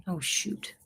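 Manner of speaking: ordinary talk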